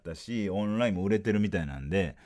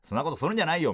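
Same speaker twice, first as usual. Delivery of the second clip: lightly voiced Edokko scolding, a little high; a hint of a Tokyo comic telling someone off; Takeshi impression; 4 semitones higher, much faster than usual. Comedian scolding his partner in manzai, light Takeshi impression. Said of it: "俺はたけしさんやし".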